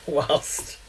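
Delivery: whilst in an imitated accent, wahlst; imitating whilst. Shown as a demonstration. Teasing a viewer's whilst, mimicked. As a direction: echo whilst the way a viewer says it. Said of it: "I like how you say".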